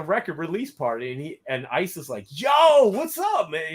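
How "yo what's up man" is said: high, loud surprised hey-man, pitched well up; surprised greeting. Retold or imitated. Ice greeting him at the release party, surprised and high. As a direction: imitate a buddy caught off guard by your arrival. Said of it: "You know, he was surprised".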